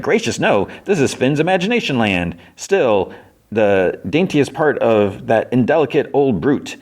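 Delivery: high, courtly little bug voice; gallant bug. Retold or imitated. Squashed bug flatters Fiona who landed on him, gallant high voice. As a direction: play a flattering gentleman bug.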